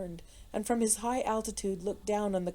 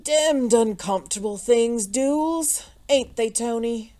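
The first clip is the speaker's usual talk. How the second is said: foppish gentleman; 3 semitones higher, 8 dB louder, slower than usual. A narrator's reading. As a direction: airily appeal to a chum. Fop joking to his friend.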